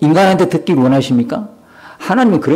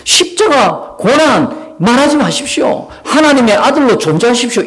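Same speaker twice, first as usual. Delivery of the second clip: pleading rebuke; 5 semitones higher than usual. Acted. Peter rebuking Jesus.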